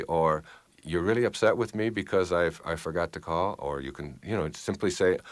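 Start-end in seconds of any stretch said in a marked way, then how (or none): 0.8-3.6 lower, even and unheated; measured, non-defensive acknowledgement; calm reply. Shown as a demonstration. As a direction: answer without taking up the fight. Models calm reply after heated one.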